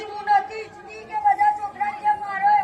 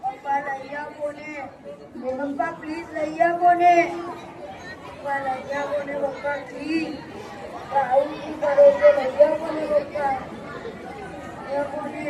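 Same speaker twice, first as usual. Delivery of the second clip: soft whining; 5 semitones lower, 3 dB quieter than usual. Acted. Son begging repeatedly, softly.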